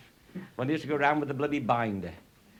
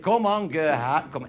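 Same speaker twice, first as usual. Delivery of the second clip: calling out; 3 semitones higher, 4 dB louder than usual. Retold or imitated. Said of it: "So I said".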